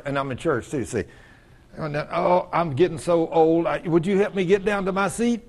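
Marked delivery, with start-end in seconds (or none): 1.8-5.4 lightly acted achy moan; complaining groaner. Aging churchgoer asking for help to a seat, mildly moaning. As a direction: put on a mild old-and-tired complaint. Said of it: "Do you hear people talk like that?".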